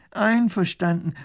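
high, loud, slow call. Acted. Professor calls his agreement over the river. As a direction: agree loudly across the water. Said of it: "ruft auch Professor Pfiffikus".

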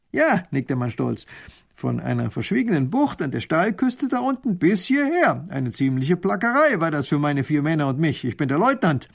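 a hint of a smug officer; proud lieutenant. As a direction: boast about your clever plan. Lieutenant boasts of tunnel.

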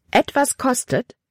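höher, erschrockener Ausruf; bestürzt nachfragen, die Stimme springt hoch; ausrufend. A narrator's reading. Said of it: "rief Libby aus". (überraschter, hoher Ausruf)

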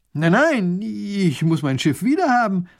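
high, loud insistent duke; he must have his ship back; desperate pleading. Acted. (verzweifelt drängend, hoch und laut)

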